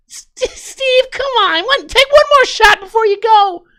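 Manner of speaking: pushy, very high, loud voice. Acting out what a friend named Jeannie says to Steve, in Jeannie voice. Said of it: "That was my Jeannie voice".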